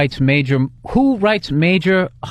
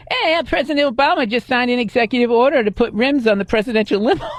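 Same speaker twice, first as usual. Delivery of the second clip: higher-pitched hammy joke delivery; monologue host delivery; 7 semitones higher than usual. Acted. Host reading an awful joke to his co-host, hammed-up monologue voice. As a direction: pitch it up like a late-night host.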